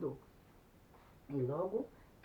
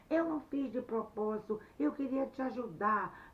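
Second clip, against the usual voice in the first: offended retort; 4 semitones higher, 5 dB louder than usual. Acted. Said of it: "e ele falou".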